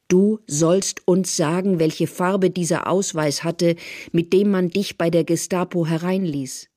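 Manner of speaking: slow, pressing demand; stern interrogation. Acted. Therese interrogating the informer, sternly demanding. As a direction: press each word on the prisoner.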